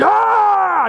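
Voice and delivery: loud high fan scream; fan's yell. Retold or imitated. Sports fan celebrates the win, loud yell. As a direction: roar like your team just won. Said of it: "You're like".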